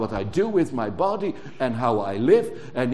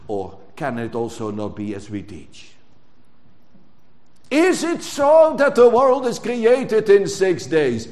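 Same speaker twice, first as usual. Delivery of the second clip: tempter's voice. Retold or imitated. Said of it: "He did that already in paradise".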